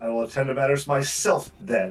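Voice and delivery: furious, very angry delivery. Game master voices a character who then storms off down the hall: angry. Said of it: "very angrily turns and storms off".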